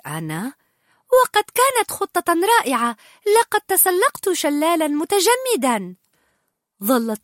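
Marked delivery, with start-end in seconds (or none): 1.2-6.0 high, bright burst of pride; Anna crowing over her climb; thrilled and proud, much higher and louder; proud excitement. Acted. Anna proudly praises the plan.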